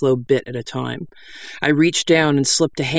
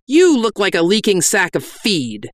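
raised, scornful pitch; berating; 6 semitones higher than usual. Acted. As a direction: insult the penitent with contempt. Berating a penitent.

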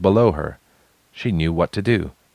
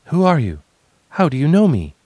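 startled cry; 9 semitones higher, 4 dB louder, faster than usual. Acted. Responsibility's startled cry to stranger.

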